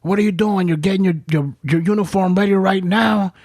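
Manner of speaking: lightly voiced scolding officer; mock angry rebuke. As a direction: master sergeant telling off a drunk sergeant, mock angry. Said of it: "this fucking master sergeant gets pissed".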